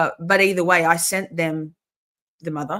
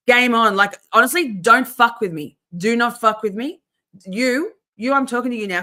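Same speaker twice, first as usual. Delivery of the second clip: louder, hard-edged warning; angry warning; 4 semitones higher, 6 dB louder than usual. Real, not acted. Vlogger warning the harassers watching her stream, angry and loud. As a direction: warn them off, meaning every word.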